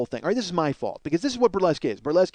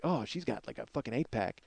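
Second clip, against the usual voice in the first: softer, lower, deflated; self-pitying mutter; 6 semitones lower, 9 dB quieter than usual. Retold or imitated. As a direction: mumble it like you've given up. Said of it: "You're just like".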